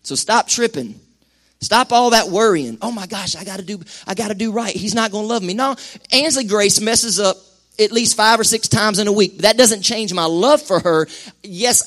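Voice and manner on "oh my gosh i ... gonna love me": quiet fast mock fretting; mock panic. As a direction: fret in a hushed rush. Mock anxious believer.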